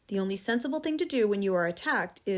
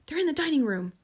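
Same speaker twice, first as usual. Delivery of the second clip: urgent hiss; 6 semitones higher than usual. Acted. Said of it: "hissed the mother".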